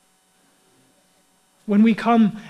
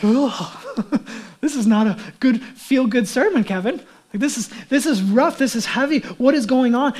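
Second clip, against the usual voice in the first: higher-pitched mock complaint with a little laugh; playfully imitated dismay; dismayed listener; 3 semitones higher than usual. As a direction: protest as an overwhelmed churchgoer. Voices dismayed listeners objecting to sermon.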